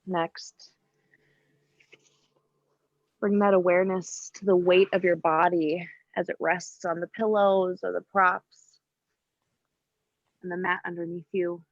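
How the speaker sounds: calm yoga teacher's cueing with long pauses; unhurried, evenly pitched meditation instruction; guided meditation. Real, not acted. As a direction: guide them gently into breath awareness, leaving space between phrases. Leads breathing awareness in yoga.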